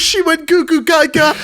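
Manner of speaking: put-on very high, squeaky babyish babble; baby voice put on as a joke; mock baby talk. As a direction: play at goo-goo baby talk. Joking about woman acting like a baby.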